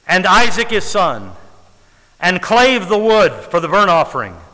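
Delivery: each "and" starts a new phrase after a pause; deliberate pauses on "and". Shown as a demonstration. Preacher reading scripture to show the slowing "and", deliberate pauses. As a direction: set off every "and" with a pause. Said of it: "put in there to slow down".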